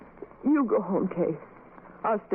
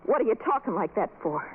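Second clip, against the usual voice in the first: ordinary talk, nothing marked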